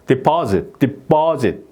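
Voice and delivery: deposit with a strong, punched pa, between puh and ppu; exaggerated. Shown as a demonstration. Teacher exaggerating deposit for the class. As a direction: overdo deposit's middle syllable on purpose. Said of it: "제가 과장을 좀 하면은".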